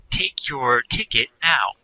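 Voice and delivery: slow, measured bus-machine announcement; annoying announcement voice. Retold or imitated. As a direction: imitate an annoying automated bus voice. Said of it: "a really annoying voice will say".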